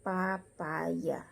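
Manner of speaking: "papaya" carefully, pa-pa-ya; Y glide demo. Shown as a demonstration. Teacher demonstrating the rule, "papaya" with a y glide. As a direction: sound a clear y in "papaya". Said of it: "dibaca papaya".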